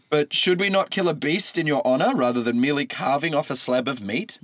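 a touch of pleading; gently pleading with the god; imploring. A narrator's reading. Maon imploring the god, a touch of pleading. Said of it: "Maon implored".

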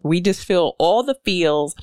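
ordinary talk

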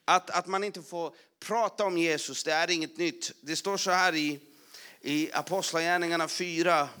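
full-force preaching. Acted. Preacher proclaiming to the church that this is nothing new, loud and fervent. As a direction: drive it home to the congregation.

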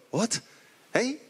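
high, puzzled waiter's double take; confused Manuel. Retold or imitated. Fawlty Towers waiter, puzzled at being told to feed the crowd. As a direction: play Manuel baffled by the order. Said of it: "I kind of picture Manuel".

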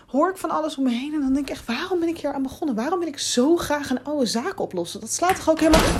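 working herself up alone in a dark house; rising panic. Acted. Alone, nerves building.

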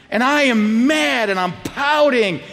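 hammed-up sulky protest; mock angry. Boy banned from the party, mock mad and pouting. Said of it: "you get more and more angry".

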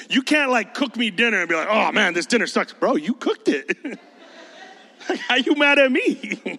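incredulous and amused, slowing down; laughing disbelief. Real, not acted. Pastor laughing at teens blaming him, laughing disbelief. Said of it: "laughing rant".

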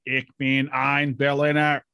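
slow, deliberate German quote; mock oratory in slow German; imitating the speech-maker. Shown as a demonstration. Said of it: "You have to say it like him".

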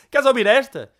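high, loud granny question; eager granny teasing a joke; high mock-granny ask; old woman voice. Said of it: "uma velha desdentada".

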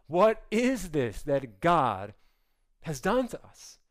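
slow, trembling question. Acted. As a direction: tremble as you ask it.

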